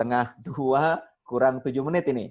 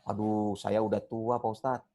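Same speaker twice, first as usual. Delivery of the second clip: put-on reluctant older learner; 4 semitones lower, 5 dB quieter than usual. Ustadz acting an older learner excusing himself, lightly voiced reluctance. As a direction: lightly voice a sheepish old student.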